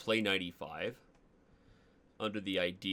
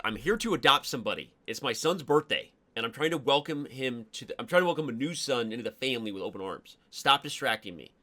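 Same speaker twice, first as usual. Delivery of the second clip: much louder, fast, hammed-up outburst; mock rant; 4 semitones higher, 10 dB louder than usual. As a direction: blow up at the chat in jest. Mock rant at the distracting chat.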